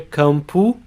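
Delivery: campo said KAHM-poo, final O as U; Portuguese pronunciation. Shown as a demonstration. Teacher models campo for students, final O as U. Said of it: "The O in word final position has an U sound".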